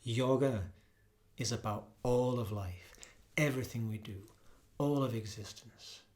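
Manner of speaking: grand, sweeping opening read; poetic podcast intro. Acted. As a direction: lift each phrase like an invocation.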